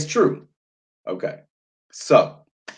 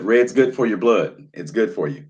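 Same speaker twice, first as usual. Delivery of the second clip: usual speaking voice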